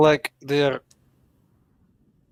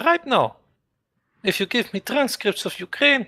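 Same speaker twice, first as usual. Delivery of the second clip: put-on Russian accent; faster than usual. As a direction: play a Russian leader in a thick Russian accent. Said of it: "I could do Russian accent".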